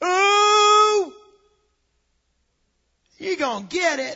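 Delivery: very slow demonic voice, long drawn-out ooh, taunting. Retelling a sibling's threat to get in trouble: imitating a sibling's demonic voice. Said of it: "that demonic voice".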